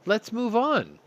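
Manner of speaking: shouted high and loud, cutting the rant off; loud exclamation. Real, not acted. Host ending his rant with a sudden loud shout. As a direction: yell it to slam the topic shut.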